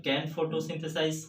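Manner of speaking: every syllable of photosynthesize drawn out very slowly; slow dictation. Shown as a demonstration. Teacher dictating a definition to students, very slow. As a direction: spell it out for students copying notes.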